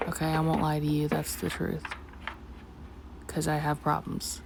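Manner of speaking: a hushed, quick whisper; whispered confession. Real, not acted. Painter whispering at two in the morning so Ella sleeps, hushed. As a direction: whisper it so the sleeping dog won't wake.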